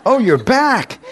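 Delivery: high, loud mock greeting; preacher's hammed-up greeting. Preacher hailing the man who just came to, hammed-up greeting. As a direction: sing it out bigger for the laugh.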